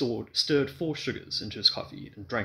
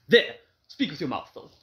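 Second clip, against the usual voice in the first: exasperated; 8 semitones higher, 6 dB louder than usual. A narrator's reading. Husband exasperated.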